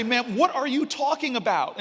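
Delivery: urgent plea. Retold or imitated. Student running after the woman.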